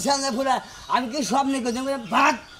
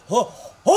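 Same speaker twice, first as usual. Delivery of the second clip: imitated roar; 4 dB louder than usual. Man boasting about tigers to his friend, mock roaring.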